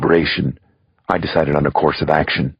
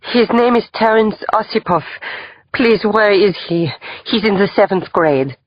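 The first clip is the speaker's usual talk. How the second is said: put-on Russian accent. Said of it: "she said with a Russian accent".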